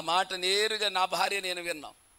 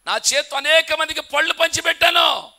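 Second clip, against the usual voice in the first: a higher, louder lament from the grieving king; anguished outcry; 9 semitones higher, 10 dB louder than usual. Retold or imitated. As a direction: cry it out as the king's bitter complaint. King laments his lost fortune. (రాజు బాధతో బిగ్గరగా వాపోవడం)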